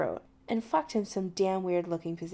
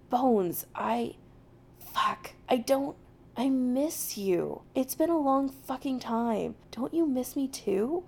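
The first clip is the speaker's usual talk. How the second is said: halting, higher-pitched heartfelt plea; earnest; 5 semitones higher than usual. A narrator's reading. Jim confessing to McCoy that he misses him, earnest. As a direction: stumble into an honest confession. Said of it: "It's so unexpected and earnest".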